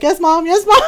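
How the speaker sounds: cowed obedience. Retold or imitated. Brother hastily obeys angry mom.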